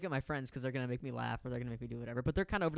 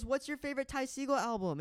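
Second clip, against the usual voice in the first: high-pitched eager fan; excited question; 10 semitones higher than usual. Retold or imitated. Girl quizzing Jaden on his favorite album, excited.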